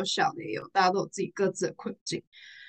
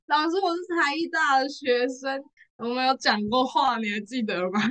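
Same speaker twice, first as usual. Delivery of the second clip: excited greeting; 5 semitones higher than usual. Retold or imitated. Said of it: "我就说".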